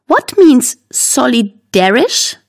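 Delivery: halting, slow, foreign-tongued "solidarisch"; struggling to pronounce. A narrator's reading. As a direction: stumble through "solidarisch" in separate chunks, questioning. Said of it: "Mandy hat Probleme, das schwierige Wort auszusprechen". ("solidarisch" mühsam und stockend ausgesprochen)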